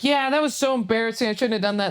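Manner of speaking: high-pitched sheepish retelling; embarrassed. Retold or imitated. Storyteller replying to the old couple, embarrassed. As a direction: own up sheepishly, voice lifted. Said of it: "I got embarrassed".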